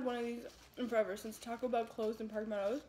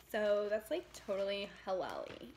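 playful white-girl impression, questions swooping up; 4 semitones higher than usual. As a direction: exaggerate the white-girl lilt, rising at the end. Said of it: "I started talking like a white girl".

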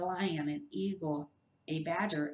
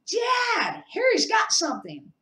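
very high, loud telling-on; loud tattling; 8 dB louder than usual. A narrator's reading. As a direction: shout to get Harry caught. Dudley telling on Harry.

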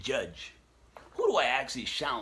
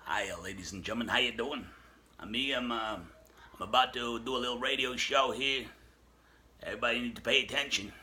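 Wolfman Jack impression. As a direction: play a late-night radio DJ hyping his show. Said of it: "do I sound like Wolfman Jack?".

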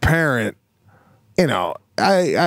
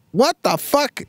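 put-on high little-kid "What the fuck?"; toddler curse; 13 semitones higher than usual. Toddler in the back seat swearing, high kid voice. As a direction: squeak it out like a small child. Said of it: "she goes".

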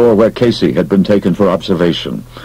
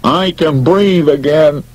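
relieved exhale; 8 semitones higher, slower than usual. Acted. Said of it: "Beasley exhaled".

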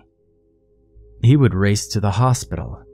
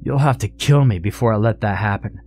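narrated scream; 7 semitones higher than usual. A narrator's reading. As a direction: climb in pitch as the argument heats up. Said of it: "screamed Blaine".

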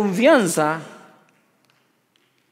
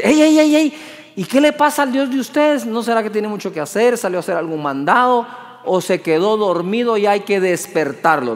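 mocking taunt. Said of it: "ese es el sonido de los hombres que creen en Dios".

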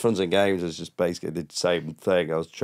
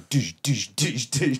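disco beat imitation; 5 semitones higher, much slower than usual. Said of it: "really good disco song".

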